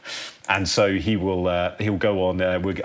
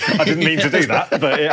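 laughing, higher and louder; 6 semitones higher, 5 dB louder than usual. Real, not acted. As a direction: laugh through the words. Laughing at his own slip.

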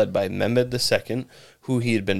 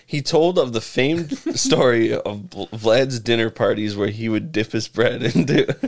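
laughing through words. Real, not acted. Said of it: "Am I doing something weird".

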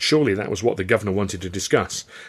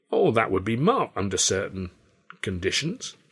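put-on old showman voice. Carno's offer.

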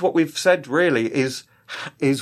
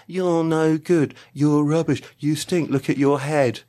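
taunting onion voice; slower than usual. Retold or imitated.

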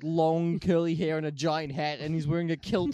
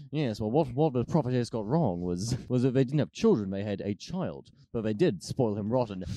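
lightly voiced low narrator; a hint of measured film narration, pitched down; Orson Welles; 5 semitones lower than usual. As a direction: deliver it as a lower storytelling voice. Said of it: "Orson Welles comes back in and is like".

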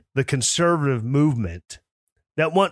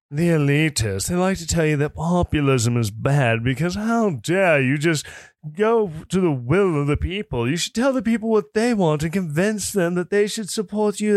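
snooty elitist voice. Retold or imitated. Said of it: "Kim says my snooty elitist voice".

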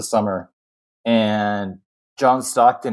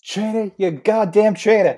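mock accusation; 10 semitones higher than usual.

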